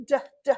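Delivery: "D, d" as short separate "duh" sounds; letter sound demo. Shown as a demonstration. Teacher asking children for the first letter, sounding out "D, d". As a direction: sound out "D, d" in two short beats. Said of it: "What letter does that start with?".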